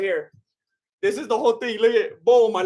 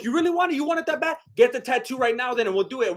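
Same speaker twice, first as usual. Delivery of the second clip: mock dare; 5 semitones higher, faster than usual. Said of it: "Jake's like".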